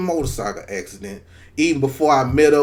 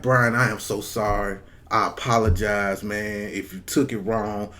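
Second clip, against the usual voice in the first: apologizing profusely; 6 semitones lower, 6 dB quieter than usual. Retold or imitated. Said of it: "apologize profusely".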